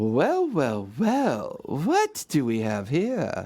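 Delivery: put-on woman's character voice with swooping pitch. A game master voices a woman calling to the player leaving the area: female character voice. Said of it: "you hear a female voice".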